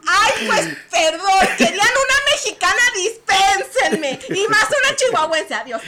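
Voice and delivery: high, loud flustered apology, laughing through the words. Retold or imitated. To the people she offended, a laughing, flustered apology. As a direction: laugh your way out of the gaffe.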